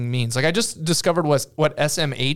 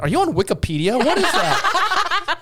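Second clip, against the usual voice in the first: mock bafflement; 12 semitones higher than usual. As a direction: play the baffled old dad. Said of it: "I'm like".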